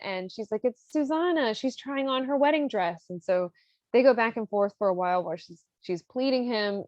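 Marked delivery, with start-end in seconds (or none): 0.6-3.0 higher-pitched cover story; mock innocent excuse. Countess explains away the closet to her husband, high and innocent. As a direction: lightly play an innocent wife, pitched up.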